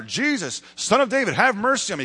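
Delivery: high, loud acted cry for help. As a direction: imitate a beggar crying out insistently over the crowd. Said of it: "he just gets louder and louder".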